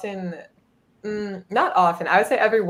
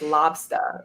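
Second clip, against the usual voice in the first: "lobster" with the R dropped, Boston style, "lobsta"; Boston "lobster" with no final R; Boston accent lobster. Retold or imitated. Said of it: "which is what she would say".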